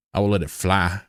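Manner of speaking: stretched drawling take; put-on drawl. Shown as a demonstration. Streamer testing the phrase for chat, drawled. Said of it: "until I'm talking like this".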